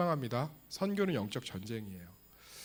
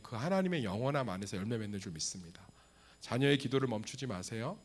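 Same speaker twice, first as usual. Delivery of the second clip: ordinary talk, nothing marked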